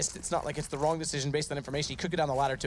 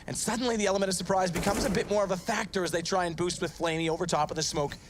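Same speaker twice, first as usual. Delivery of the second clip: excited; 5 semitones higher than usual. Real, not acted. Round climax, caster builds hype.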